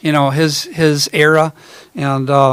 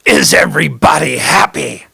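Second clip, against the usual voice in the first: A vaudeville bandleader's catchphrase. Retold or imitated. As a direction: lightly imitate the vaudeville host shouting to the crowd. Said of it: "he'd go".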